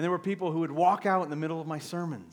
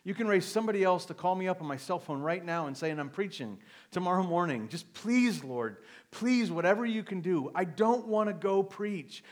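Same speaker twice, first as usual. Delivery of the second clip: retold begging prayer; 3 semitones higher, 4 dB louder than usual. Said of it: "I'm just begging God".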